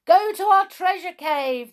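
loud, high-pitched order; excited commanding shout. A narrator's reading. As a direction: command it at full voice. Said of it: "they shouted".

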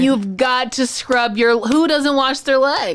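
imitating Twitter scolding a celebrity, slow and incredulous; scolding disbelief. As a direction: drag the scold out slowly. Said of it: "And Black Twitter was like".

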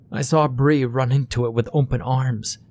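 lightly voiced frightened mother; worried mother voice.

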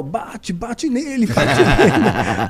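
slow, laughing mock urging to hit him; wife egging him on. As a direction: play the wife cheering on the fight, half laughing. Ela só fazendo sinal. (esposa incentivando a briga, devagar e rindo)

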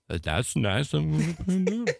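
self-quote. Retold or imitated. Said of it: "I look out the window and I say".

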